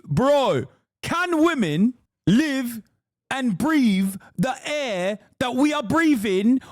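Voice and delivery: high, slow mock South Asian London podcaster; South Asian London accent. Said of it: "when did you unlock a South Asian London accent?".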